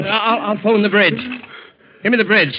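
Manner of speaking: loud, high urgent calls; urgent shout. Acted. Steward urgently calls the bridge.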